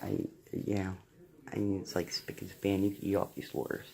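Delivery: speaking with dentures out; gummy, toothless mumble. Real, not acted. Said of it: "without my teeth in my mouth".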